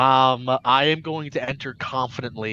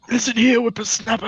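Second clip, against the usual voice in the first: put-on cranky old voice; 11 semitones higher, 6 dB louder, faster than usual. Old character scolding.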